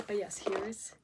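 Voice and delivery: hushed unboxing whisper; whispered reveal. Real, not acted. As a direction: whisper it like a secret.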